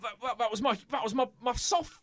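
a hint of high indignant bruiser; lightly voiced hurt bruiser. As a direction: whine it, mildly wounded. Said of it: "And he goes".

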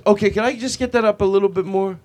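overly courteous mic request; super nice. Acted. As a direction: ask the sound guy extra nicely. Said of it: "even if you're super nice".

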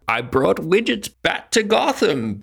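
high, put-on hero voice; mock Batman. Batman bragging to Gotham about widgets. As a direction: boast it as a proud hero.

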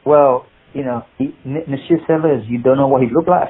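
put-on hesitant, lightly French-accented question; a hint of an elderly Frenchman; old French man. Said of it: "he was an old French guy".

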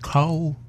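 a light imitation of her upstate "Cow". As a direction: imitate the wife's funny "Cow". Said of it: "She has a funny way of saying".

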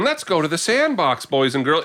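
lightly voiced children's host; kids' entertainer imitation. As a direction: call the kids along in play. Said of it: "the voice he's putting on".

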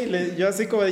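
ordinary delivery

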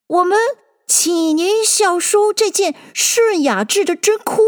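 high-pitched, mildly ceremonious speech; solemn presentation. A narrator's reading. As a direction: present it formally as the storybook Dodo. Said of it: "就很正经地".

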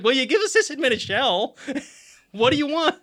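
laughing through the words. Retold or imitated. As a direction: say it while laughing. Retold own reply, laughing.

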